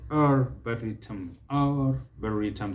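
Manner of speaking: arboretum with the first R sounded; American R. Shown as a demonstration. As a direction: bring out the R in "ar" of arboretum. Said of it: "they'll bring out the R".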